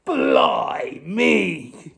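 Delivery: gruff pirate outcry; pirate shout. Acted. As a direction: bark out the pirate oath. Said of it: "cried Pete".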